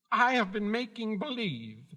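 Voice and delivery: high, timid little man's confession; meek. A narrator's reading. Little man confesses his pretence to Dorothy, meekly. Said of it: "said the little man meekly".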